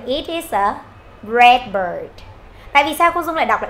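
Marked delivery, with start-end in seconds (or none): 0.0-2.2 "It is a" run into one unit, then "red bird"; linked reading. Shown as a demonstration. Teacher showing sound linking, joined-up "It is a". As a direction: link "It is a" with no breaks between words. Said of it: "chúng ta sẽ đọc luôn là".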